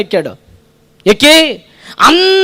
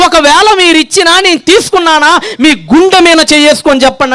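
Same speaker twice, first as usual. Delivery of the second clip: raised, challenging questions; challenging shout; 4 semitones higher than usual. Acted. Samuel shouting at the Israelites to accuse him. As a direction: dare anyone to accuse him. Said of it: "అరుస్తున్నాడండి".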